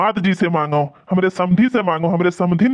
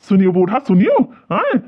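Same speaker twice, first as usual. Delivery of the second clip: sharp call; 3 dB louder than usual. Acted. Son-in-law demanding the old man listen, loud and sharp. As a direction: snap at him to listen.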